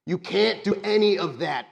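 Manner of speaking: high, loud, pleading; desperate pleading NPC. Acted.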